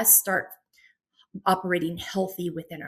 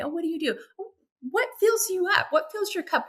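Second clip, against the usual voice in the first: bright curious questions; 10 semitones higher, faster than usual. Pretend. Mock small-talk questions at events.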